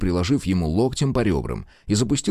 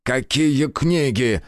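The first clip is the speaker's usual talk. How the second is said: roaring; 6 semitones higher, much slower than usual. Acted. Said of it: "взревел Киршнер".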